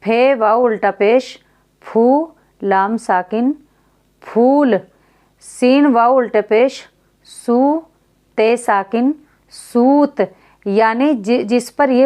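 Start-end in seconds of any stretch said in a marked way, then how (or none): 1.8-4.8 फूल with the long u held slowly; teacher drawing out the vowel for pupils; long u drawn out. Shown as a demonstration. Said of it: "तो उसको खींचकर पढ़ा जाएगा". 7.3-10.2 सूत with the long u held slowly; teacher drawing out the vowel for pupils; long u drawn out. Shown as a demonstration. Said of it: "तो उसको खींचकर पढ़ा जाएगा".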